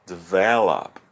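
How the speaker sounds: develop repeated with VEL stressed; stress on second syllable. Shown as a demonstration. Teacher confirming the emphasis for students, develop with VEL stressed. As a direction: hit VEL in develop, ending on a fall. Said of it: "na segunda sílaba".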